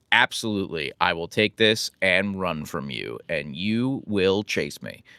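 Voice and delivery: a hint of a willful dog, slowing down; lightly voiced dog. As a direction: spell out the dog's plan slowly and deliberately. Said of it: "she'll be like".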